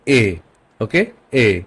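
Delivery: German letter name এ, a long 'ay'. Shown as a demonstration. Teacher showing learners the German letter E, pronounced এ as 'ay'. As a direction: say এ as 'ay', not English 'ee'. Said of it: "German হবে".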